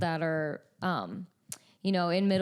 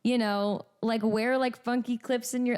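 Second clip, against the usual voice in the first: higher, slow, mock-encouraging cheer; playful tween pep talk; 4 semitones higher, slower than usual. Singer cheering on awkward tweens, playfully higher. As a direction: coax a shy kid to be weird. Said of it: "And I'm like".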